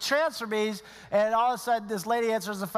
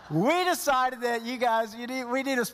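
laughing; 2 semitones higher than usual. Real, not acted. Laughs while telling coach.

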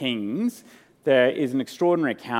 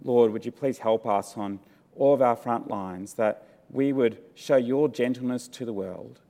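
prayer. Real, not acted. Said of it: "Let's pray".

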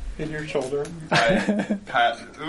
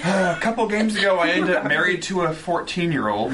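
laughing; 4 semitones higher than usual. Real, not acted. Laughing confession.

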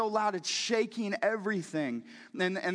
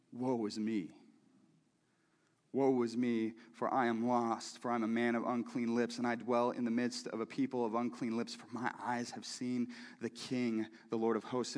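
awed lament; 9 semitones lower, 6 dB quieter than usual. Acted. Isaiah's lament read aloud.

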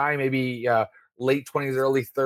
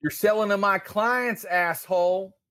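angry accusation; 7 semitones higher than usual. Acted. Brad yelling at the dealer.

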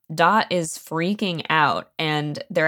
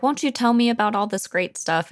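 lightly acted, higher-pitched eager request; eager daughter; 7 semitones higher than usual. Blind daughter asking her father about their things, eager.

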